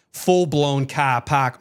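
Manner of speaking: broad Boston vowels, no R's; slow, drawn-out Boston accent sample; full-blown Boston accent. Shown as a demonstration. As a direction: demonstrate a thick Boston accent. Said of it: "really have a Boston accent".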